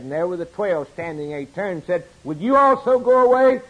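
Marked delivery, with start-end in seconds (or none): 2.2-3.6 pleading question. Acted. Jesus asks the twelve.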